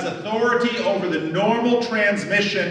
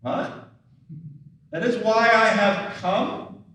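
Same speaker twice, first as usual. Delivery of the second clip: baffled question rising at the end; confused disciples echoing Jesus's words; puzzled echo. Retold or imitated. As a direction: repeat it back as if it makes no sense. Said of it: "they said".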